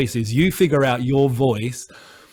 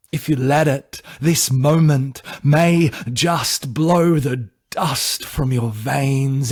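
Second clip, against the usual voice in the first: slow, measured poetry recital with weighted pauses; spoken-word poem. Acted. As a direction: deliver it as an earnest spoken-word piece.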